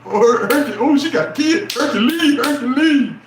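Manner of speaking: butter her up with a sly, bright call; a man fawning over the kids, loud and high; fake-friendly man. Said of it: "The one that's like".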